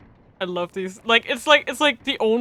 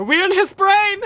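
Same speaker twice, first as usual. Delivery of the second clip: excited; 11 semitones higher, 7 dB louder, slower than usual. Real, not acted. Excited discovery.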